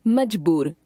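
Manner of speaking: मजबूर with a hard j in the middle; मजबूर as "majboor", never z; plain Hindi j. Shown as a demonstration. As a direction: say the ज in मजबूर as j, without nukta. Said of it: "इनके उच्चारण में भिन्नता होती है".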